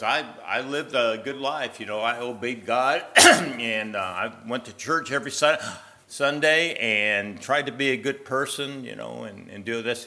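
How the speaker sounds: a man sure he lived well; proud man. Acted. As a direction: list good deeds with pride. Man listing deeds at gate.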